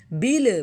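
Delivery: بل with an extra "uh" after the L; wrong bounced lam. Shown as a demonstration. Teacher showing students the error, بل with bounced lam. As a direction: let the L of بل bounce into "bil-uh". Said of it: "بل نہیں کہنا".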